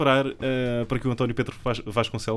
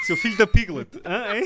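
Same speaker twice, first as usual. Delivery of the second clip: laughing through a mock insult; 12 semitones higher, slower than usual. Real, not acted. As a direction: giggle as you say it.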